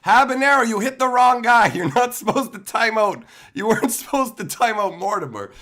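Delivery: loud, high shout at the bot; real shout. Real, not acted. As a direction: yell it across the room in alarm. Scolding the chat bot.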